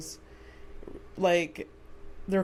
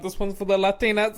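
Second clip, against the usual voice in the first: imitating J Lo; 5 dB louder, faster than usual. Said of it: "the clip that went around".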